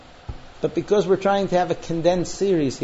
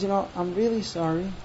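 soft, hurt apology; 6 dB quieter than usual. Acted. Wife to husband who doubts her, mildly hurt. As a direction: apologise quietly, a little wounded. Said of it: "he could hear that she's hurt".

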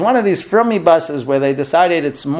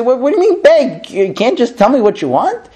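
higher, incredulous what-do-you-mean; baffled husband; 6 semitones higher, 3 dB louder than usual. Retold or imitated. Husband protesting to his wife, higher and incredulous. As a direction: play the puzzled husband who doesn't get it.

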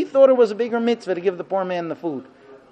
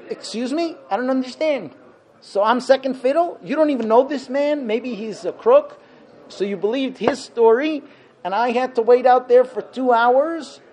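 indignant husband; 4 semitones higher than usual. Retold or imitated. Husband demanding answers from his late wife, mock indignant. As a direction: complain to your wife as if wronged. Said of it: "You would say".

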